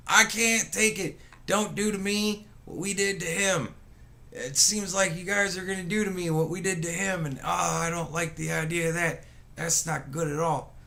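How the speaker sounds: a hint of a begging old politician; mock pleading. Streamer mocking Biden's State of the Union, mild pleading. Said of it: "That's what it sounds like to me".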